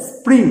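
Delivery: high, loud one-syllable স্প্রিং; crisp "spring" cluster in স্প্রিং; model pronunciation. Shown as a demonstration. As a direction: hit স্প্রিং straight from the s. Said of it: "উচ্চারণ করো আমার সাথে".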